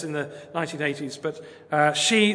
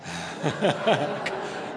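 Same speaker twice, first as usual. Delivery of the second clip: self-mocking laugh; 4 dB quieter than usual. Real, not acted. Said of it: "I can't do it as well as him".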